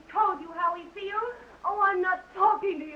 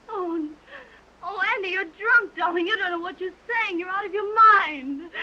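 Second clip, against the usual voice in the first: tearful pleading; 6 dB louder than usual. Acted. Marge pleads with drunk Andy.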